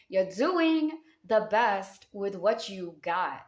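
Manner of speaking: "You're doing the best with what you got" drawn out slowly, each word weighted; slow it down so every word lands; slow, emphatic repeat. Shown as a demonstration.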